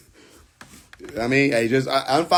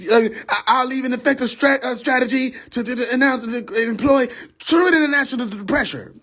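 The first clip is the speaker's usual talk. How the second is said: mock politician speech; 5 semitones higher than usual. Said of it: "I sound stupid".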